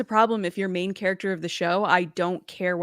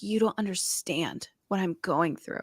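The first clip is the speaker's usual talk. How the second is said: mocking raspy voice; 7 dB quieter than usual. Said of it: "she talks like that".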